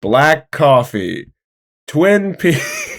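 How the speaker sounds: slow, drawn-out morning musing; weary monologue. Acted. MacArthur facing the blob, slow and weary. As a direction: savor the dull Tuesday. Character's deadpan Twin Peaks monologue.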